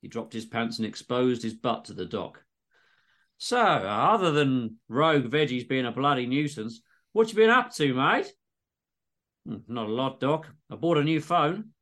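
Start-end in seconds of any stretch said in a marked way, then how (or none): 3.4-8.3 doc making small talk in Aussie; exaggerated Aussie accent. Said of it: "all dialogue is in exaggerated Aussie accents". 9.5-11.7 casual Aussie patient; patient replying to doc, Aussie; exaggerated Aussie accent. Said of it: "all dialogue is in exaggerated Aussie accents".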